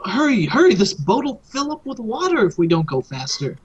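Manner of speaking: urgent hurried plea; urgent NPC plea. Acted. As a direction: hurry them along, pressing. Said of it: "and she says".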